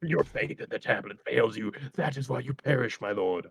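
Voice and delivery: solemn mock English-accented physician; lightly hammed English accent, courtly. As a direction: pronounce judgment in a put-on English accent. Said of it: "he had an English accent".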